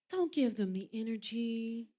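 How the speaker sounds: slow, sweet and gentle imitation; Crystal. Imitating sweet castmate advising her about haters, gently. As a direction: imitate a kind peacemaker, unhurried. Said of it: "Crystal is so sweet. She's so nice".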